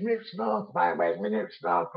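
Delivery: imitating Scottish workmates, shakily attempted accent; bad Scottish accent. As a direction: have a rough go at a Scottish accent, softly. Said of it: "they said it with a Scottish accent. I'm not very good with that".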